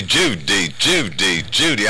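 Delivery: lightly attempted movie-star impression; a rough catchphrase imitation, one beat per name; Cary Grant. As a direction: say it as a film star's famous catchphrase. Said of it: "if that's a good impression of him".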